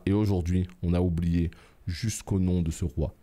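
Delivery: a touch of a storyteller reading lore; item description read. Acted. Gamer reading the crown's lore aloud, lightly solemn.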